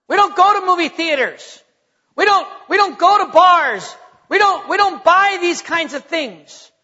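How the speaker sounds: lightly acted, insistent house rules; firm parent. Preacher modelling what to tell your children, firm.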